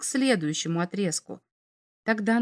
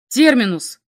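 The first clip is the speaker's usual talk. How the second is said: sharp, higher shouted call; 4 semitones higher, 8 dB louder than usual. A narrator's reading. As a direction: cry out the name loudly. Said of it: "крикнул он".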